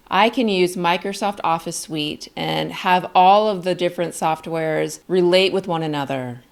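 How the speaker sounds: calm declarative statement, pitch settling down at the end; falling inflection. Shown as a demonstration. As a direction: state it as a fact, letting the tune fall. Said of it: "so it goes down".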